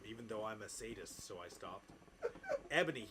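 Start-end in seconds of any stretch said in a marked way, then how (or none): 2.7-3.1 slightly raised, louder call; mock yell. Voldemort calling out to Ebony, mild mock yell. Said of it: "he yelled".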